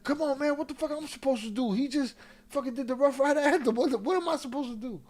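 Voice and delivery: high, fast helpless pleading with a laugh; mock exasperation. Dude explaining to Poe why he let X ride. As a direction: plead like there's nothing you could do. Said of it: "And he's like".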